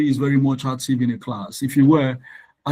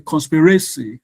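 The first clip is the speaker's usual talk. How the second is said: conspiracy with the weight moved off CON; stress on a later syllable; 2 semitones higher, 3 dB louder than usual. Shown as a demonstration. Teacher quizzing class on conspiracy, shifted stress. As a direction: offer conspiracy as another stress option. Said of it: "are we supposed to pronounce loudly".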